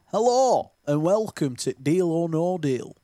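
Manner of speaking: a light game-show host voice; Stephen Mullen impression. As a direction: greet the studio like a quiz host. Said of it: "do you want my impression of Stephen Mullen?".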